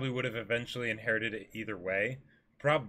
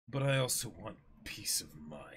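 whispered; 6 semitones lower, 6 dB quieter than usual. Acted. Villain confides his scheme.

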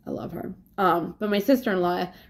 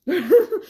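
embarrassed laugh; 8 semitones higher, 5 dB louder than usual. Real, not acted. Laughs at herself tearing up.

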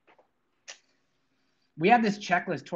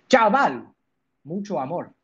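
high, bright goodbye; cheerful farewell; 5 semitones higher, 3 dB louder than usual. Shown as a demonstration. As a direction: wave off a friend cheerfully. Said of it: "That's another way to do it".

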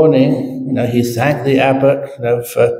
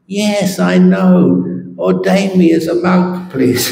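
eager pleading; 6 semitones higher than usual. Acted. Australian begs to become monk.

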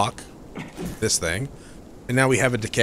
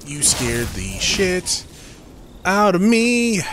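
laughing off fear; 8 semitones higher, slower than usual. Real, not acted. Startled by enemy.

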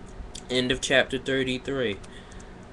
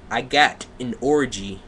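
deliberate, overdone fan-fiction reading; mock dramatic reading. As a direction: declaim it word by word. Mock reading, then questioning it.

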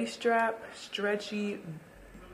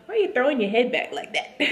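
laughing; 6 semitones higher than usual. Real, not acted. Talking to baby, laughing.

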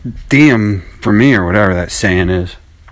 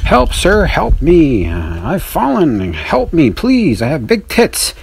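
high, breathy-free damsel plea; mock woman in distress; 6 semitones higher, slower than usual. Joking how a woman would call for help, high pitched. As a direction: play a helpless damsel begging. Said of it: "maybe if it was a woman".

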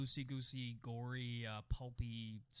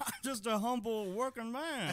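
nervous bank teller; 10 semitones higher, 5 dB louder than usual. Pretend. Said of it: "the bank teller".

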